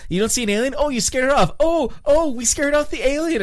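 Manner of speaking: mock them like smug cops; mock sarcasm. Cops mockingly disbelieving the alien story.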